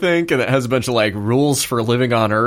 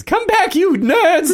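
villain yelling; slower than usual. Acted. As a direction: scream after them as they go. Villain left alone yelling.

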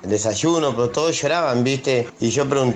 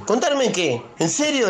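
put-on child's disbelief, much higher; a boy alarmed at bad news; sorprendido; 9 semitones higher, slower than usual. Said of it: "le digo yo". (nene alarmado, mucho más agudo)

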